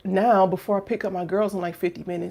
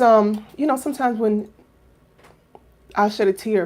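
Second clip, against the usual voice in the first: usual speaking voice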